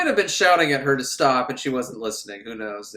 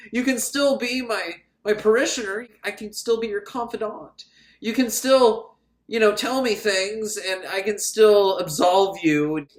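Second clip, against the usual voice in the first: higher-pitched, coaxing mock plea; pleading priest; 5 semitones higher than usual. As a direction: coax them to stay, lightly hammed-up. Priest pleads with departing organist.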